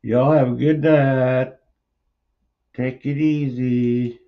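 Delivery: drawn-out sign-off. Real, not acted. Signing off the stream.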